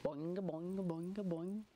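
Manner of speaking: sing-song boings in a steady bounce; rhythmic, springy boing sounds; bouncing hop noises. Acted. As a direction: imitate a kangaroo hopping along. Imitates kangaroo hopping.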